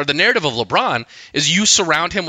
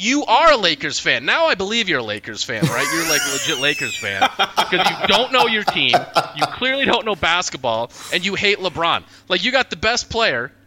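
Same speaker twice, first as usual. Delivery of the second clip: incredulous mock praise; 5 semitones higher than usual. Mocking retort to Lakers fan.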